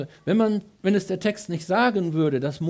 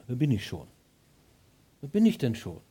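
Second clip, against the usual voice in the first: mock excuse; 4 semitones lower than usual. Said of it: "in der ersten Ausrede".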